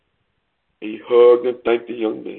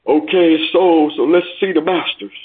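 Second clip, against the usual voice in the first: higher, impatient demand; understated angry call from the crowd; mildly angry; 5 semitones higher than usual. Acted. Angry bidder wanting to see the masters, mild anger. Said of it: "an angry voice came".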